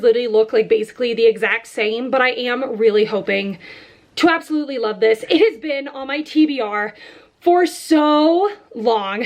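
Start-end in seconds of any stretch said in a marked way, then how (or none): 4.2-9.2 breathless after running around; talking while catching breath. Real, not acted. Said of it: "Sorry, I'm out of breath".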